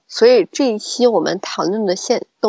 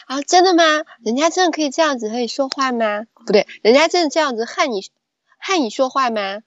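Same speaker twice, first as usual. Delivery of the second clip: put-on a light Taiwanese accent, playful; 3 semitones higher than usual. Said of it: "用台湾腔来主持".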